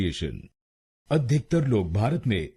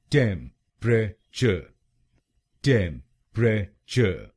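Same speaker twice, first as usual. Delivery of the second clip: slow syllable-by-syllable; slower than usual. Shown as a demonstration. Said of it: "तो बनेगा".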